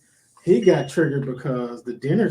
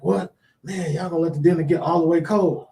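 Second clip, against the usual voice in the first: a bit louder, raised-pitch complaint; hungry patient complaining about dinner, lightly raised; impatient patient; 3 semitones higher, 4 dB louder than usual. Retold or imitated. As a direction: whine like you're hungry and fed up. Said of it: "And he was like".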